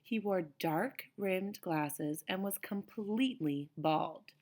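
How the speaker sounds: put-on reading a picture book to kids; paced, expressive read-aloud for children; story reading. A narrator's reading. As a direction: storytime narration. Reads chapter aloud to children.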